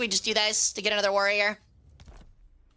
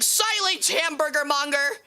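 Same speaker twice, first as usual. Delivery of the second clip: mock grand command; 4 semitones higher than usual.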